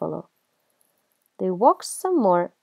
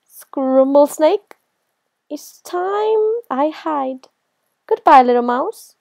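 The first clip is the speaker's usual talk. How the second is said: high, drawn-out shocked question, then hasty farewell; alarmed snake; 7 semitones higher, 6 dB louder than usual. Acted. Snake learns it may be eaten, high alarm. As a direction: stretch it out high in rising alarm.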